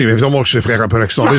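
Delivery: quick Brussels Belgian accent, rattled off. Shown as a demonstration. Chroniqueur proving to the host he can do it, Brussels accent. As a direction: slip into a Brussels accent to prove you can. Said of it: "c'est plutôt l'accent bruxellois".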